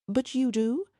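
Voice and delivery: anxiously asking, pitch rising high; a worried, hopeful question. A narrator's reading. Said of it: "Helen asked anxiously".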